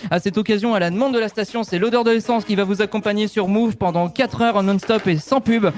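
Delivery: high, jittery over-caffeinated DJ; wired hip-hop DJ. Acted. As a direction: rattle it off like a wired DJ.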